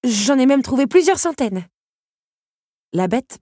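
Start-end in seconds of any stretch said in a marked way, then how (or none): 0.0-1.7 high, loud gushing reply; covering up with forced enthusiasm; flustered overeagerness. A narrator's reading. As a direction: blurt it out high and too eagerly. Belle flustered, overcompensating after stammer.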